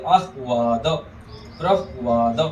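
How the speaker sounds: आह्वाद, प्रह्वाद said in parts, breaking after the ह; pronunciation demo. Shown as a demonstration. Teacher shows students how to say आह्वाद, careful demo. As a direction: sound the ह in आह्वाद, प्रह्वाद, then a long वा. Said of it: "ऐसे उच्चारण करेंगे".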